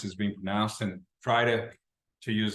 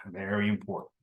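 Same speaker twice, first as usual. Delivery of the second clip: serious, grave; 4 semitones lower, 5 dB quieter than usual. Shown as a demonstration. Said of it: "she said seriously".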